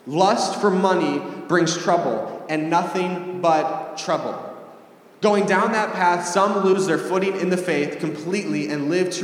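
slow, emphatic Bible reading; scripture reading. Acted. Preacher reading a Bible passage to the congregation, slow and emphatic. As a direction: read it out deliberately, weighing each phrase.

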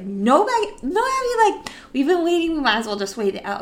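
wheedling "no, Abby"; pleading Becky. Retold or imitated. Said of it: "And she's like".

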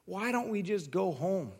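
loud, high-pitched angry rant; reenacted screaming tirade at a wife; retold yelling. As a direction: yell it like you've lost it, easing on the last question. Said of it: "I'm, like, yelling at Becca".

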